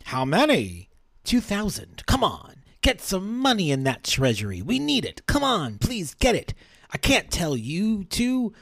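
lightly acted feverish mobster; voiced gangster reading. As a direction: read it as the dying gangster, begging. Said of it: "The audience probably needs voices".

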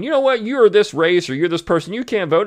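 high sneering quote voice; mock gatekeeper. Host mocks imagined poll bigot, high sneering voice. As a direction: play the petty gatekeeper.

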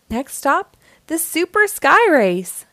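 called out high and loud across the sky; rally the friends with a big call. A narrator's reading. Blaze calls to his friends while soaring, loud and high. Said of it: "called Blaze".

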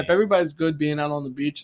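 talking with a mouth full of food. Real, not acted. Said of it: "sorry, I have food in my mouth".

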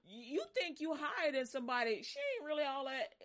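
high, sassy gossip voice; jealous gossip. Retold or imitated. Preacher voicing onlookers who now gossip. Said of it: "they start going".

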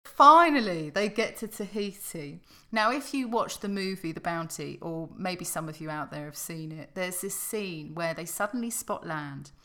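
loud, slowing, punching each starved; dramatic storytelling. Acted. Host narrating the Bounty crew sighting land, dramatic. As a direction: tell it like an epic voyage tale.

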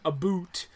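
"a boot" said with a long oo; jokey stereotype "a boot", oo as in food; mock Canadian vowel. Host denying the stereotype, mock Canadian vowel. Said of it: "I don't think I've ever said".

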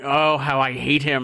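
slow, loud mock disdain; acted kid's grudge; Shermie. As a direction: draw it out as a comic punchline. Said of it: "third panel is Shermie going".

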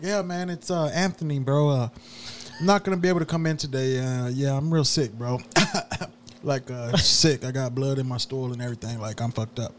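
lightly voiced fake-sick worker, soft; soft, mumbling sick-day excuse; fake sick caller. Worker calling in to his manager, mildly faking sick. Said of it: "he's playing both characters".

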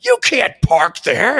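high shouting guard, dragged out; mock the furious guard; guard yelling at the door; angry guard. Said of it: "he was just like".

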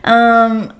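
ordinary talk

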